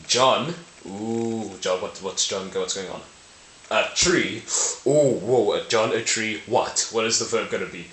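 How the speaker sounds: playfully gasping along at a mystery; mock suspense. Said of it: "like a mystery".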